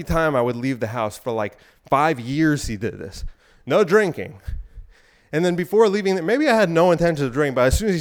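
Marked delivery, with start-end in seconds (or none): 3.6-4.4 lightly imitated firm dad; a dad's routine warning, firm; stern dad warning. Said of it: "my dad would always say this".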